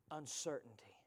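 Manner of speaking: hushed whisper. Acted. Preacher hushing the church on doubt, whispered. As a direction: drop to a breathless whisper. Sermon drops to a hush.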